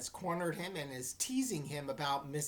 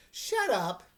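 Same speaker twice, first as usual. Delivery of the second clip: mild angry snap; 4 semitones higher, 6 dB louder than usual. Acted. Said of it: "I began".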